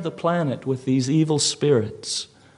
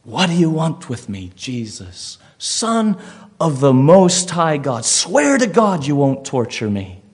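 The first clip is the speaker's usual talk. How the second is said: raised voice, pleading in outbursts; dramatized shout; 5 dB louder than usual. Acted. Possessed man at Jesus' feet, a half-restrained shout. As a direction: cry out as the demon-possessed man, not at full scream. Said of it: "and shouts to him".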